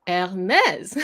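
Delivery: Hermès with an open "eh" in the last syllable; open French è. Shown as a demonstration. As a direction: say Hermès as "air-MEZ". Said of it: "so this is E".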